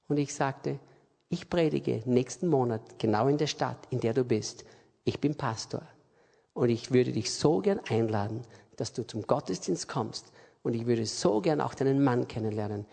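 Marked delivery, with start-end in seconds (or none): 1.3-12.9 earnest invitation. Retold or imitated. Retold earnest invitation to woman.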